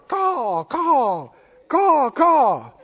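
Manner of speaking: repeated mock cawing, rising at the end; raven caws. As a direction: squawk like a flock of ravens. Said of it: "they all started".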